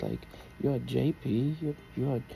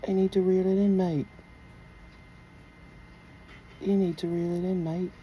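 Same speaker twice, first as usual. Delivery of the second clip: put-on British accent; 4 semitones higher, faster than usual. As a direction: play a British bloke warning a mate. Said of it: "You like my British accent".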